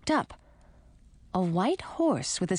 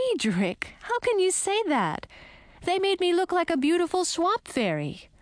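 indignant; 10 semitones higher than usual. Acted. Girl defends her wings, indignant.

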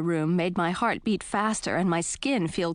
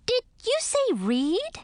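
higher, slow, suddenly serious; serious bat voice; slower than usual. A narrator's reading. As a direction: ask it in earnest, slowly. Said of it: "suddenly becoming serious".

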